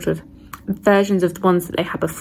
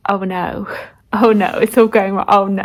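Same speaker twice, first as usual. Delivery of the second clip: louder alarmed groan of oh no; dismayed oh no; 5 dB louder than usual. Real, not acted. Reacting to the story going wrong, loud dismay. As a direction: cry out as it all goes wrong.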